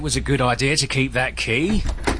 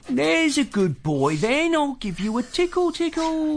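put-on baby talk to the dog; 11 semitones higher than usual. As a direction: coo at the dog like a toddler. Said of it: "Don't talk like that".

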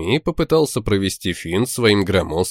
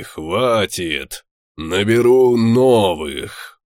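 cold villain; slower than usual. Acted. Villain captain gloats coldly.

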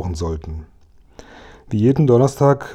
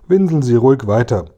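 taunting call, slightly raised; mocking call; 3 semitones higher, 4 dB louder than usual. Kasperl taunts the prisoner through the barred window, mocking call. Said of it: "rief Kasperl zum Gitterfenster hinein".

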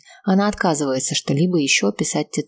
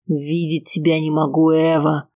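rough growl. Acted. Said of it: "грубо рычит".

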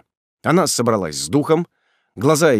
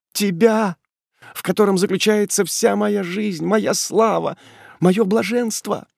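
passionate devotion; 8 semitones higher than usual. Acted. Ethel's passionate declaration of love.

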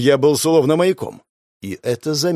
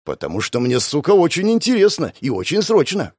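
impatient bark; 4 semitones higher than usual. Acted. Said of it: "гаркнул я".

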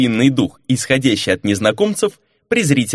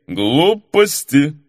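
put-on drunk interruption; 2 semitones higher, much slower than usual. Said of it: "перебил де Вольга".

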